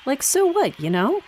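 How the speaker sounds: bored eye-rolling so what; a sighing, dismissive aside. Real, not acted. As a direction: shrug it off, unimpressed. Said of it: "I sighed and rolled my eyes".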